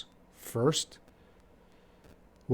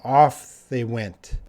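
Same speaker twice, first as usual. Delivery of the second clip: slow demo; 5 dB louder, slower than usual. Shown as a demonstration. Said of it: "That's an English expression".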